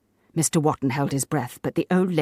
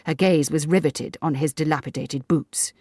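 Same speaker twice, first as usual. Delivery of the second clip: usual speaking voice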